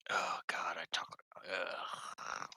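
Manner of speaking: breathy embarrassed whisper. Real, not acted. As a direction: groan it under your breath. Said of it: "unvoiced whisper".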